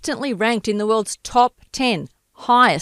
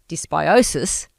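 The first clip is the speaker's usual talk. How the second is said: slow careful dysbiosis; 3 semitones lower, slower than usual. Shown as a demonstration. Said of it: "I just need to define the word dysbiosis".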